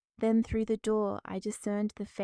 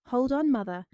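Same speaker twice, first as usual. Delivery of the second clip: raised, urgent plea; urgent protest; 4 semitones higher, 6 dB louder than usual. Acted. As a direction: push back hard, raised voice. Daughter protests in labor.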